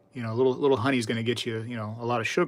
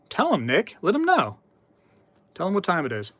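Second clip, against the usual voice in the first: pitched way up, hyping the chatter on; egging him on; 6 semitones higher than usual. Real, not acted. To chat, cheering Nick against the troll, high egging-on. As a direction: cheer Nick on like a ringside fan.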